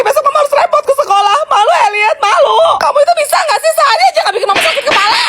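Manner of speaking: angry scolding. Acted. Mother scolding son loudly.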